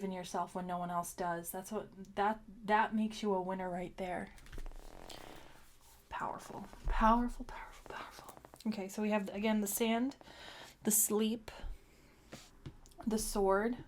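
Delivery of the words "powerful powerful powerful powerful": whispered. Real, not acted. Emphatic chant over card.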